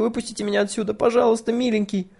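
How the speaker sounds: high, pleading little voice; frightened pleading. A narrator's reading. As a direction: beg to be let out, scared. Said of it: "пискнула девочка". (испуганная мольба высоким голосом)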